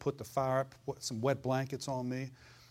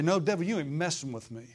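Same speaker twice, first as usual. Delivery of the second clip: defiant rebuke. Shown as a demonstration. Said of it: "You say".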